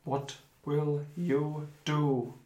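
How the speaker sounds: deliberate storytelling, slowing at key phrases; game master narration. Acted. Game master putting quicksand peril to players, deliberate narration. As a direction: read out the danger, drawing out the final question.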